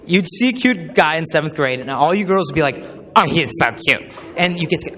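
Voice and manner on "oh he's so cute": mock girly gush. Girls gushing over cute guy.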